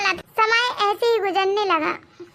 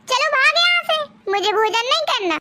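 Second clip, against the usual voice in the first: a hint of a bossy mother-in-law calling out, slightly raised; sharp-tongued mother-in-law yelling for her bahu, lightly played; mildly voiced scolding mother-in-law. Mother-in-law taunting about dowry.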